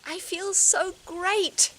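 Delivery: exaggerated affirmation. Shown as a demonstration. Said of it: "I just got this little sentence".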